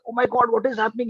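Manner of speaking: quick, lightly panicked quote; mild retold fear. Professor caught in the storm, mildly scared. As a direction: act out a touch of sudden fright, rushed. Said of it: "now becomes very scared".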